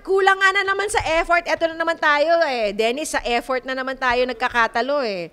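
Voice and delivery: host scolding the father over lack of effort; exasperated scolding. Real, not acted. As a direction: throw up your hands at him.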